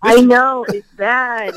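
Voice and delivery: congested from a cold; sick, blocked-up voice; stuffy nose. Real, not acted. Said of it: "So, you sound".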